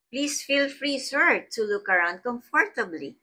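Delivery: teacher showing a polite, pleased invitation to a guest. Shown as a demonstration. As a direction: lift "Please" up high and invite warmly. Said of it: "You are expressing pleasure".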